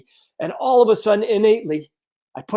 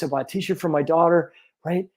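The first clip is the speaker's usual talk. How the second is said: ordinary delivery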